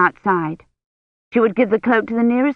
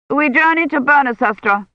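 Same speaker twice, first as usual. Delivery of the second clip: a hint of a brusque churchman; curt envoy; 7 semitones higher, 3 dB louder than usual. A narrator's reading. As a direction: dismiss her firmly. Envoy's voice in story.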